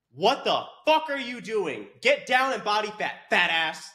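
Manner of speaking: high, forceful tough-love outburst; worked-up, insulting reprimand; exasperated scolding. Real, not acted. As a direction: burst out berating them. Snaps back to scolding men.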